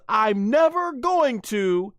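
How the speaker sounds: high mock Bulma voice; Bulma pleading. Bulma warning Vegeta, high mock voice. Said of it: "and she says".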